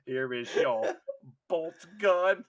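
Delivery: halting, emphatic presentation; mock solemn quartermaster. Quartermaster issuing a makeshift weapon, mock solemn. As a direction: hand it over with ceremony.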